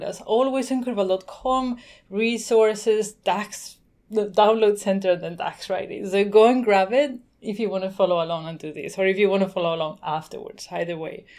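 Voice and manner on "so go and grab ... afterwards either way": slightly out of breath, talking on; winded after rushing, still explaining. Real, not acted. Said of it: "So I'm out of breath".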